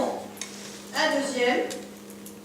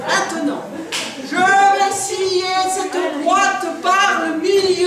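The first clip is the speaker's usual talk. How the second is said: showman shout; slower than usual. Acted. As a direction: boom it out to the crowd. Magician grandly announcing sawing.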